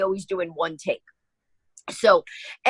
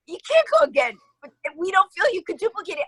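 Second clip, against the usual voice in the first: mock crew voice; 10 semitones higher than usual. Retelling the crew refusing her.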